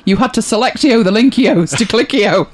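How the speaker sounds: loud hammed-up o endings; mock Spanish. Host performs the Spanish joke on request, lightly loud. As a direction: tack o onto every word, selectio, linkios. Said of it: "shall I do the Spanish thing?".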